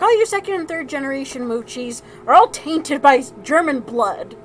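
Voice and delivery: imitated grandfather's rant, a touch heated; mock tirade. Grandfather berating second and third generations, mock tirade. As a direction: rail lightly as a ranting grandfather. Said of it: "he went on a tirade saying".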